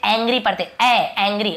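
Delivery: "एंग्री" as ANG-gree; teacher repeating the correct "एंग्री"; correct ae pronunciation. Shown as a demonstration. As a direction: open ae at the start of "एंग्री". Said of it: "तो हम इसे एंग्री पढ़ते".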